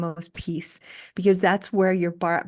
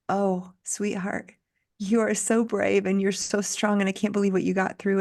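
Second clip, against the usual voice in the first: tender to younger self. Retold or imitated. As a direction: soothe the girl you once were. Speaking tenderly to her younger self.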